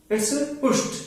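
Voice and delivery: "पुश्ड" ending in a clipped sh-t, पुश्ड; half sh then t for "पुश्ड"; correct pushed. Shown as a demonstration. Teacher to class, modelling the correct "पुश्ड". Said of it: "ये पुश्ड नहीं है".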